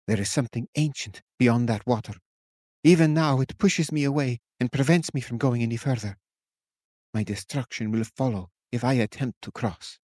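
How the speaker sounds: a hint of a wary witch; witch, ominous. A narrator's reading. Witch warning the captain, lightly voiced.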